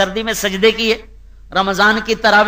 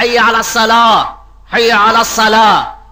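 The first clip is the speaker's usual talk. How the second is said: louder call to prayer; 2 semitones higher, 4 dB louder than usual. Shown as a demonstration. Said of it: "دو دفعہ کیوں پکارا".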